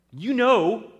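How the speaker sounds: loud, high outburst from a parent; angry rebuke. Acted. Parents rebuke their son about Claudius, angry.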